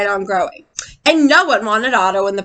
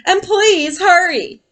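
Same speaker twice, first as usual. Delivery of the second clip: urgent plea; 5 semitones higher, much slower than usual. Acted. Boy urging fireman.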